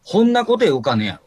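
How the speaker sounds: strong Hakata dialect. Shown as a demonstration. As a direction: lay the Hakata dialect on thick. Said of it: "きつめの博多弁で言えば".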